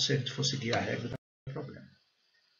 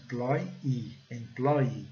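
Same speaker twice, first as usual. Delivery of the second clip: "Employee" with PLOY and EE equally strong; two strong syllables; 4 dB quieter, much slower than usual. Shown as a demonstration. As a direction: stress both ends of "employee". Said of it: "duas sílabas fortes".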